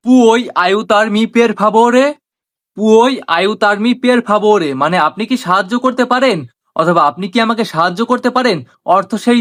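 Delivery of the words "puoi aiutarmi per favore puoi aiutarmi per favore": very slow, word by word Italian phrase; slow teaching demo. Shown as a demonstration. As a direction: spell it out slowly for learners. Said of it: "এটার Italian হবে". (ধীরে ধীরে শেখানোর উচ্চারণ)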